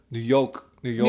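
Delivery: light attempt at a New York accent. Warming up a New York accent. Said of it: "We're gonna do New York".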